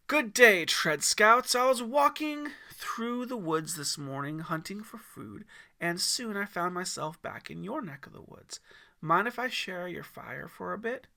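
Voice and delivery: put-on old woodsman greeting the scouts, booming; mountain man. A narrator's reading.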